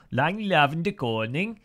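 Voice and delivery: Dutch phrase in a mock Danish accent; imitated Danish lilt, rising at the end. Shown as a demonstration. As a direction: have a go at a Danish-sounding delivery. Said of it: "that was how the, that was how the, uh, Danish say it".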